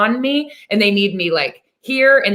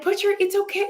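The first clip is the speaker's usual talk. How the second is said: imitated reassurance; 9 semitones higher, 4 dB quieter than usual. Mother reassuring a stressed daughter.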